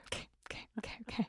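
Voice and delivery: hushed whispered okays; whispering. Real, not acted. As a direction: whisper it under your breath. Hushed agreement to wait.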